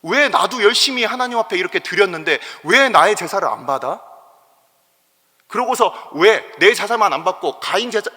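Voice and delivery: angry complaint. Retold or imitated. Preacher voicing Cain raging at God, loud and high. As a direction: rail at God for refusing the offering. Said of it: "이러면서 이 가인이 화를 내는".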